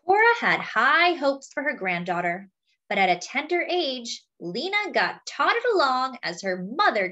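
put-on lively picture-book read to children; story narration. A narrator's reading. Reading a picture book about a singer to friends, lively storytelling. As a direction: tell it like a storyteller to a class.

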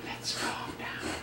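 slow, soft whisper to calm; soothing whisper. Real, not acted. Dad whispers slowly to settle his dog.

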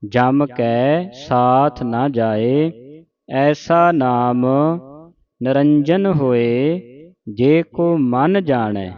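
slow, measured model recitation; scripture recitation demo. Shown as a demonstration. Teacher showing congregation correct Japji Sahib reading, slow recitation. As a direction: recite it slowly for learners to copy. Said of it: "ਸ਼ੁੱਧ ਉਚਾਰਨ ਆਪਾਂ ਸਿੱਖ ਰਹੇ ਹਾਂ".

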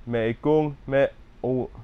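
Me kung me o- with stress on kung, slow; fixing the stress. Shown as a demonstration. Learner correcting the stress after the teacher. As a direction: lean on kung slowly. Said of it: "syllable stress right".

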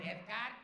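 "Edgar" said as "Eth-gard"; "Edgar" pronounced with a TH. Shown as a demonstration. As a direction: soften the D of "Edgar" to a TH, full "ar" ending. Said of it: "With a T H".

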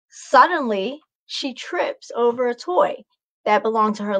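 lively storybook reading; bright picture-book read-aloud; reading to children. A narrator's reading. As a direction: read it like story time for kids.

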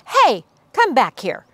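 officer calls after fleeing troops; a touch of a shout; mild shout. Acted. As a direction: commander yells at his running troops. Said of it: "shouted the Big Cheese".

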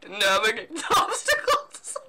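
inhaled croak cracking into laughter; throat-closed demon croak; breathed-in words. Shown as a demonstration. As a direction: say it on the in-breath, giggling. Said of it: "you breathe in words".

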